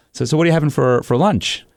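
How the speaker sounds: high, mock-innocent question; feigned casual interrogation; sarcastic. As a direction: keep probing with teasing sarcasm. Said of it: "sarcastic line of questioning coming his way".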